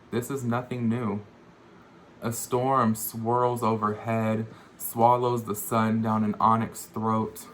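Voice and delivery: measured poem recital, phrase by phrase; poetry reading. Acted. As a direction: read it as verse, pausing between images. Reads own poem aloud.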